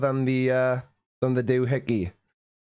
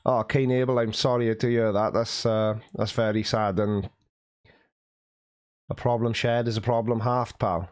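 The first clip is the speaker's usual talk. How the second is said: lower, consoling tone; sympathetic; 3 semitones lower than usual. Real, not acted. Streamer consoles a chat member over sad news, sympathetic and low. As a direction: offer gentle sympathy, pitched low.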